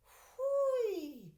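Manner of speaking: high, loud cry of wonder; amazed whoop. Acted. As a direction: let out a delighted whoop. Arthur exclaims in amazement.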